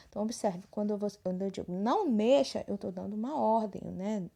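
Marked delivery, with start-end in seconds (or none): 1.7-2.6 "Não mexa" given as a firm command with "Não" stressed; emphatic order. Shown as a demonstration. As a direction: order them not to touch it. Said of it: "Tô falando de uma maneira mais enfática".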